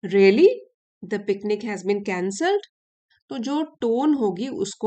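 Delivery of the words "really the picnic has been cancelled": "really" snapped out loud and sharp in anger, the rest held back; teacher demoing an angry, loud "really". Shown as a demonstration. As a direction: spit out "really" like the plan just got ruined. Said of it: "और अगर गुस्से से होगा".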